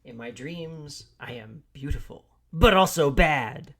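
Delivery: slow, building to loud; slow then boom on bad; dramatic declaration. Sign-off joke line.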